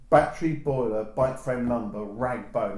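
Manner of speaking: a rag and bone man's call, falling away; street cry. Retold or imitated. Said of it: "That was his cry".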